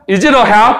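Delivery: "Is it a hat" run together as one phrase; linked pronunciation. Shown as a demonstration. Teacher models it for students to repeat, linked pronunciation. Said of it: "발음 따라해보세요".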